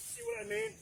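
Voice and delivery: choking on a bug mid-sentence; words catch on a swallowed bug; just swallowed a bug. Real, not acted. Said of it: "Sorry, I swallowed a bug".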